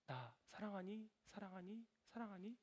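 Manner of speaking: very soft, rising each time; gentle repeated question. Acted. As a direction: softly ask it three times over, pausing between. Jesus asks three times, gently. (나직이 거듭 묻는 말투)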